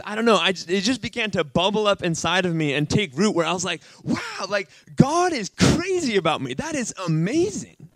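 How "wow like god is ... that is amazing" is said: high-pitched, wonderstruck recollection; awed, excited realization; retold amazement. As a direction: relive being amazed, pitch leaping on key words. Reliving his amazement at God's love.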